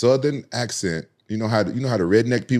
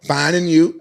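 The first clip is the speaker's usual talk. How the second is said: higher, louder imitation of Irish speech; Irish girl; 8 semitones higher, 5 dB louder, slower than usual. Irish girl answering his greeting, imitated Irish way of talking. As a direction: run it together like an Irish greeting. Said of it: "my grandmother used to talk like that".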